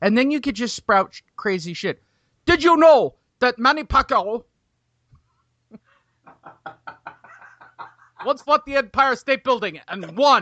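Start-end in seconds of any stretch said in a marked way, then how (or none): 2.5-10.4 New York accent with lisp, tongue held high. Showing the perfected impersonation with a New Yorker voice: Teddy Atlas impression. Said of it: "I worked on my Teddy Atlas impersonation".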